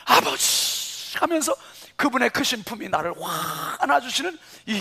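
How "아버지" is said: long breathy drawn-out whisper; tearful whisper. Retold or imitated. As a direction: let the word break into tears. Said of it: "콧물이 쏟아지고".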